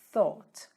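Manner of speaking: "thought" begun with the tongue between the teeth; TH sound. Shown as a demonstration. Teacher showing the past of think, "thought" with tongue-between-teeth TH. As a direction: say "thought" with a voiceless English TH. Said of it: "a língua no meio do dente".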